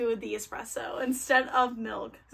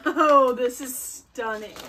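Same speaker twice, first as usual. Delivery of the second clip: slow, louder, breathy awe; awed; 7 dB louder, slower than usual. Real, not acted. Vlogger unboxing special edition, slow awed praise. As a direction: savor how gorgeous it is.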